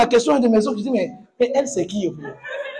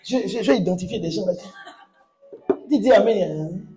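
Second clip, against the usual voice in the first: fiery preaching; 3 semitones higher than usual. Acted. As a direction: preach it hard to the congregation. Pastor preaching to congregation.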